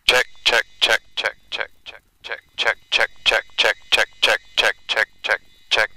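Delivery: mic check through an oxygen mask; muffled mask mic radio check. Real, not acted. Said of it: "Much, much higher than this".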